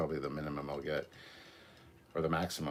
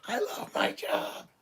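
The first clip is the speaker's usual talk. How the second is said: whispering; 4 dB louder, slower than usual. Acted. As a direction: whisper it like a secret aside. Whispered quip in a chat.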